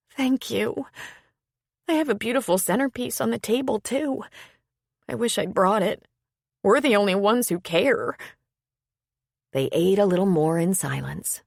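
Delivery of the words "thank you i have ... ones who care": higher, quicker voice for Iris; Iris, chattering brightly about her centerpiece. A narrator's reading. Iris telling Gwen about her centerpiece, high and quick.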